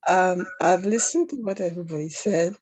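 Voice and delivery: hoarse, wheezy from a cold. Real, not acted. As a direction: speak through a chesty cold. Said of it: "You sound wheezy to me".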